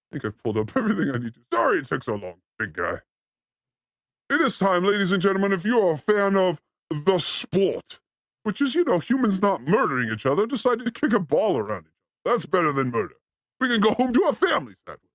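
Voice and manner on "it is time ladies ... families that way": announcer intro. Acted. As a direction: hype up the guest like a ring announcer. Hypes a guest introduction.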